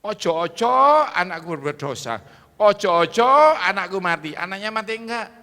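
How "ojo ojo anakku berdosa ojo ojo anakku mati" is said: loud, high, hammed-up pleading; acted fearful prayer. Preacher acts Job praying daily for his children, mock anxious plea. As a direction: cry out the opening, then fall away. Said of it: "Ayub itu tiap hari berdoa".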